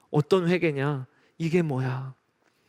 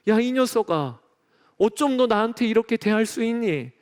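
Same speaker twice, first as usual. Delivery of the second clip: mock scolding; 3 semitones higher than usual. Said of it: "라고 꾸짖으신 게 아니고".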